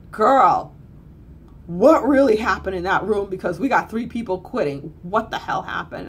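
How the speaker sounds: mock demand from a worried friend; the HR friend calling to ask what happened, loud and urgent; imitating HR friend. HR friend on phone.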